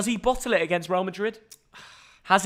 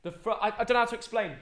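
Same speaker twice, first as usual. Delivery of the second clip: quiet aside; 2 semitones lower, 9 dB quieter than usual. Real, not acted. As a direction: drop your voice and fumble for the word. Off-stream aside about his tea order.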